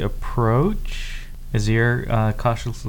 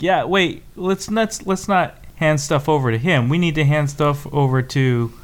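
urgent; 4 semitones higher than usual. Acted. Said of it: "be like".

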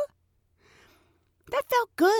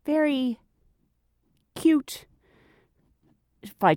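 whispered; 5 semitones higher, slower than usual. Real, not acted. Whispered compliment of attendant.

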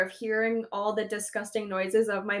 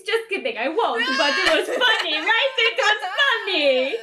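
higher voice bubbling with laughter; laughing; 7 semitones higher than usual. Real, not acted. Taking back a silly joke to the cohost, laughing. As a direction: giggle it out, climbing higher toward the end.

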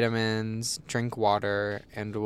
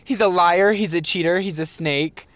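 snake tongue; 6 semitones higher, 7 dB louder than usual. Acted. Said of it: "tried to speak in the snake tongue".

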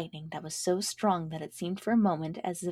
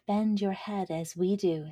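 corn's voice. Acted. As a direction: say it steadier, closer to own voice. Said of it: "said the corn".

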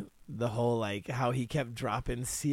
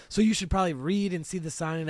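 condescending inflection; 3 semitones higher than usual. Retold or imitated. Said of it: "her inflection was kinda like".

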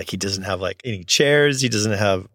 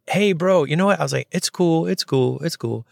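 calming negotiator voice; 7 semitones higher than usual. Retold or imitated. Notary calming the furious client, a soothing negotiator voice. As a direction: talk him down, easing off each time. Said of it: "crisis negotiator mode".

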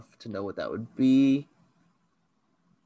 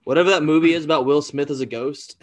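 excited blurt; 2 semitones higher, 5 dB louder, faster than usual. Real, not acted. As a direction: shout out the guess in a rush. Blurts guess loudly.

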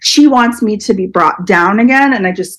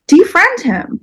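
insistent demand; 10 semitones higher, slower than usual. Retold or imitated. Telling parents to cut contact.

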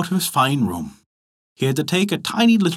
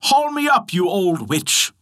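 shouting up; 4 semitones higher than usual. Acted. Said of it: "shouted up through the tree".

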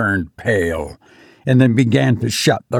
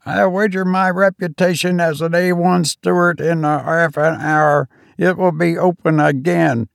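much higher, triumphant servant's voice; high triumphant steward; 7 semitones higher than usual. Acted. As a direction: crow it like a steward proved right. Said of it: "continued Robert triumphantly".

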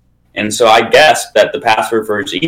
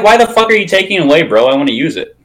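high, fast indignant whine; whiny outraged friend; 7 semitones higher than usual. Retold or imitated. Quoting the friend, a high fast indignant whine. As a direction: pitch it up like a kid who lost his toy. Friend demanding account back.

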